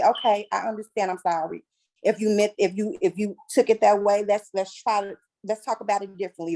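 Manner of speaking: calmly measured, conciliatory retold response; calm reply. Speaker retelling her calm reply to her partner, calm and conciliatory. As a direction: answer with composure, smoothing things over. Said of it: "listen and smile and say ... calmly".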